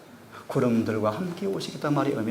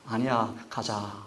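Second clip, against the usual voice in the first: slow, softer and lower; gentle insistence; 4 semitones lower, 4 dB quieter, much slower than usual. Retold or imitated. Jesus to Peter, slow soft insistence. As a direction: calmly overrule him.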